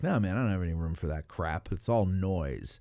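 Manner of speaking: a hint of a cranky old man dismissing noise; grumpy old man. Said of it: "I was like an old man".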